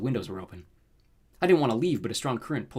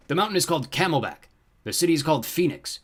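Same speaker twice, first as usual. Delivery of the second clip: higher, louder henchman's report; servile rooster creature; 6 semitones higher, 5 dB louder than usual. A narrator's reading. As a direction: report dutifully to your master. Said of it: "Roosterfoot said".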